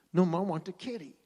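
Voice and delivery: put-on loud, insistent little-kid voice; a small boy demanding a kitty; lightly voiced stubborn toddler. Toddler refuses again.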